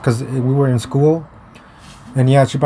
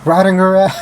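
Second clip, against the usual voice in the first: higher-pitched, cracking up at the end; real laugh taking over the words; breaking into laughter; 6 semitones higher than usual. Real, not acted. Storyteller recalling hitting his ex, breaking into laughter.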